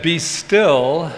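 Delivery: slow, reverent recital; unhurried, solemn scripture recital; scripture quote. Shown as a demonstration. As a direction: intone the verse slowly. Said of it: "this scripture that said".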